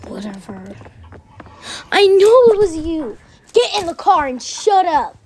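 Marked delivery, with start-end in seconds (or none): 1.9-5.2 stern command. Acted. Grandfather turns on girl.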